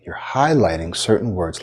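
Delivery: "highlighting" picked out from the phrase; emphasis on highlighting. Shown as a demonstration. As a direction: lean on "highlighting". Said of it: "like I just did".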